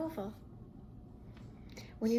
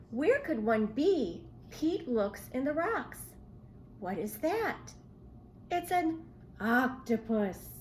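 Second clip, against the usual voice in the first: put-on lively storybook read-aloud for kids; reading to children. A narrator's reading. Teacher reads a seahorse story to children, bright and lively. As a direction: read it like story time for little ones.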